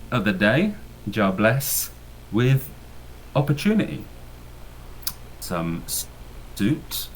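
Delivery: put-on light Jamaican accent, held back in halting phrases; half-slipped Jamaican accent. Fixer telling the crew of his job offer, hint of Jamaican accent. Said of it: "I'm not gonna do it. I, I'm try".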